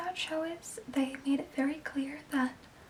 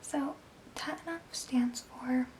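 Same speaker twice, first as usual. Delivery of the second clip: ASMR whisper. Real, not acted. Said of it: "my A S M R voice".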